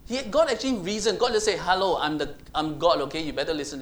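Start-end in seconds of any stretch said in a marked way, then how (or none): 1.6-3.8 mock bossy God. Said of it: "He didn't say that".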